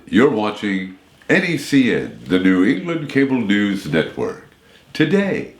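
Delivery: network promo voice, big finish on today; announcer read. Retold or imitated. Announcer recording a network promo read. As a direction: sell the channel name like a station ident. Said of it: "over thirty times I had to say".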